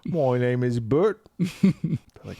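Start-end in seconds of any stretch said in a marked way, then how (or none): 0.1-1.2 slow hammed-up fake Cockney; Dick Van Dyke Cockney. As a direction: announce yourself like a stage Cockney. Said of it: "talk like Dick Van Dyke".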